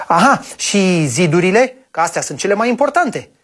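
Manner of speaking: put-on quick, eager child's question; impatient. Boy impatiently asking grandpa, quick and eager. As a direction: hurry the question out. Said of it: "întrebă cu nerăbdare băiatul".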